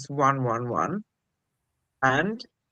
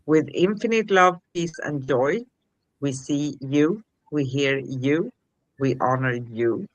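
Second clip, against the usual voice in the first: measured, read-out spiritual sign-off; formal benediction with deliberate pauses; scripted closing blessing. Shown as a demonstration.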